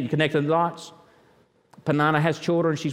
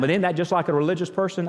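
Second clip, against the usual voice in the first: wry repeat; faster than usual. Acted. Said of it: "amen or oh me on that one".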